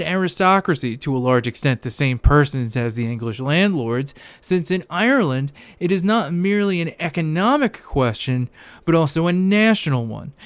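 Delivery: reading aloud in a put-on Scottish accent. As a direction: read the passage in a mock Scottish accent. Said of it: "my very authentic, uh, Scottish accent I was, uh, throwing around".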